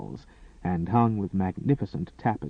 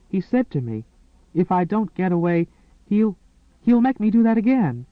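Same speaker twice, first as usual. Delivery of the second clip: much higher, louder frantic begging; desperate pleading; 8 semitones higher, 4 dB louder than usual. Acted. Woman clutching the maid's wrist, frantic pleading. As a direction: beg for help as if terrified he returns. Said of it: "her green eyes wild with pleading".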